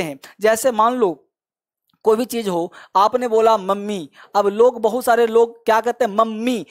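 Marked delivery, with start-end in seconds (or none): 3.6-4.1 मम्मी with a long, held double M; doubled M. Retold or imitated. Teacher imitates what many people say, मम्मी with doubled M. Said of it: "double एम बोल देते हैं". 6.1-6.7 मम्मी with both Ms sounded; doubled M. Retold or imitated. Teacher mimics a common mistake, मम्मी with doubled M. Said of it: "double एम बोल देते हैं".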